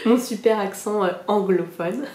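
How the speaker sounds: words broken by a real laugh; laughing at herself. Real, not acted. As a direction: giggle through it, self-mocking. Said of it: "laughs at own accent".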